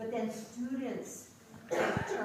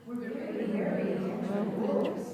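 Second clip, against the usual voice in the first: quicker run-through of the tongue twister, still crisp; a little faster; 7 dB louder than usual. Shown as a demonstration. Teacher speeding up the tongue twister drill. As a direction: pick up the pace but keep each word. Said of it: "and make it a little faster".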